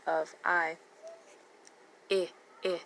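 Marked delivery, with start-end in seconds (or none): 2.1-2.8 "I, I" as brief ih, ih; short I sound. Shown as a demonstration. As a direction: say "I, I" as two separate vowels from pig. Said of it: "The short I".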